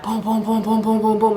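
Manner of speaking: rapid even run of booms; knocking noise done with the voice; imitated banging. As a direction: imitate pounding on a door.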